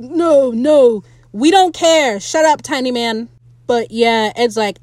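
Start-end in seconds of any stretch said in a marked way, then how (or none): 0.0-3.3 high, loud dismissive sneer; mocking Izzy. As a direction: wave him off like a petty first mate.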